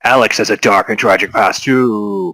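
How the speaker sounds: lightly voiced ad announcer; TV commercial announcer voice. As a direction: pitch it like a TV ad. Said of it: "T V commercial announcer voice".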